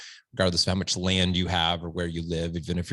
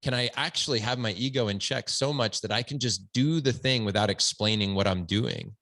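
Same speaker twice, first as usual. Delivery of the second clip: lightly hammed-up self-satisfied dad, a bit higher; mock preachy dad; 4 semitones higher than usual. Dad mocking himself lecturing his son, smug and a bit higher. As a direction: play the smug dad showing off his wisdom. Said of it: "But to say".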